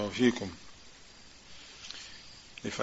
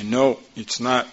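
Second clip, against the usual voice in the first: firm rebuke. Shown as a demonstration. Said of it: "that's what you should say to yourself".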